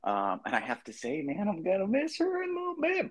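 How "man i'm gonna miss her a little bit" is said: very high, squeaky mock sentiment; mock wistful. Mock sentiment about missing Lupita.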